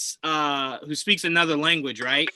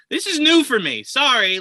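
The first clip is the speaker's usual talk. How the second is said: higher, flustered apology, half laughing; mock flustered Clint; 7 semitones higher, 4 dB louder than usual. Podcast host voicing Clint's flustered apology. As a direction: play a caught-out guy apologizing.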